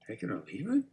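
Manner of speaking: soft mirror with upward inflection on "leave it"; gentle, inquiring. Shown as a demonstration. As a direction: ask it very quietly, "leave it" swooping up. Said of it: "That's gentle and it's inquiring".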